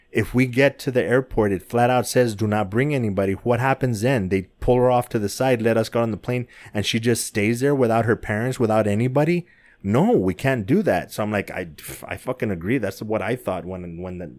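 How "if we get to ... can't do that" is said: mildly heated, pressing husband quote; retold insistent arguing. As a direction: argue the point, building questions to a firm no. Retold argument with his wife.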